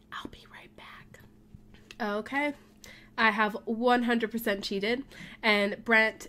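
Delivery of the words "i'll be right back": soft conspiratorial whisper. Real, not acted. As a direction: whisper as if sneaking off. Sneaking off whispering.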